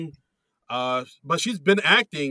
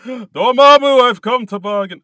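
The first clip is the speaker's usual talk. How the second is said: higher, louder Doctor Strange line; movie quote; 9 semitones higher, 14 dB louder than usual. Retold or imitated. Quoting Doctor Strange to his co-host, louder and higher. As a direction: declaim it like the film hero.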